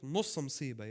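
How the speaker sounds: نص مصيبة with a firm falling stress on نص; teacher sounds out نص مصيبة clearly; Arabic phrase said slowly. Shown as a demonstration. Preacher teaching the congregation an Arabic saying, careful and clear. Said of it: "this is what we say in Arabic".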